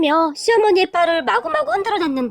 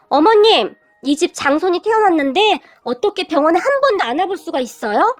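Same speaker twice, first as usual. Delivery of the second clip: whiny complaint; 2 semitones higher than usual. Retold or imitated. Sister-in-law complaining to mother-in-law.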